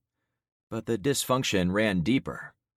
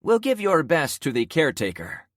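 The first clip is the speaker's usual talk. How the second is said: scornful parting; 9 semitones higher, 6 dB louder than usual. Acted. Carmen leaving in scorn.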